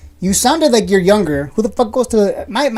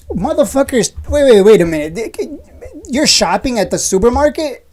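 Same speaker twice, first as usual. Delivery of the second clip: sudden outburst; 5 semitones higher than usual. Real, not acted. Streamer catching a viewer shopping in person, mock alarm. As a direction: stop everything in mock alarm.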